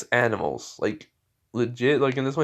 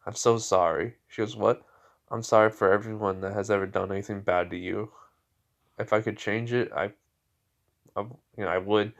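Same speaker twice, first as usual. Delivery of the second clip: soft, sincere apology; understated, heartfelt sorry; tender apology; 2 semitones lower, 4 dB quieter than usual. Acted. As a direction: apologise gently, a little hushed. Girl hugs beast, apologises.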